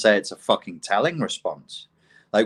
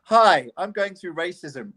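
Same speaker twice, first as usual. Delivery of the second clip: mock complainer; 7 semitones higher than usual. Parodying Pierre's complaint.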